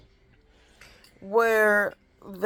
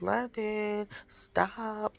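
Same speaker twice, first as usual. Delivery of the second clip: under the breath; 8 dB quieter, much slower than usual. Retold or imitated. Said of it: "he be saying it under her breath".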